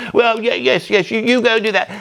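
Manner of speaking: high, keen approving father; eager posh father. Acted. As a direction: wave the daughter on like a doting rich dad.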